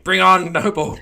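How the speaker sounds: high, loud crowd yell; screaming fans. Retold or imitated. Fans watching stoppage time, screaming for Noble. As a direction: shout it out like a fan demanding a sub. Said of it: "we was all just screaming".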